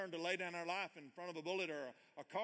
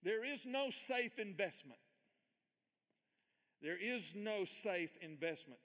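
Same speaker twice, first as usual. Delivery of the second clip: slow reading; 4 semitones higher, slower than usual. Shown as a demonstration. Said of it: "so I'm gonna read it slow".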